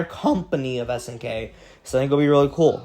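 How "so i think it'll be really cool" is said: voice crack. Real, not acted. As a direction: voice cracking mid-sentence. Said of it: "sorry for the voice crack".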